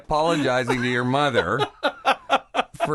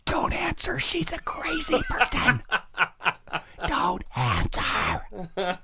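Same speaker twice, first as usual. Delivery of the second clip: laughing; 8 semitones higher, much slower than usual. Real, not acted. Host laughs at crazy question.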